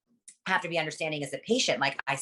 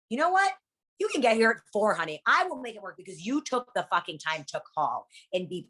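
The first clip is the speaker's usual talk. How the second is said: sweet forgiving reply; 3 semitones higher than usual. Retold or imitated. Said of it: "and it's like".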